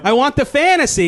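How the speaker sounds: high-pitched, hammed-up craving; eager yes. Tempted diner answers the waiter, hammed-up eagerness.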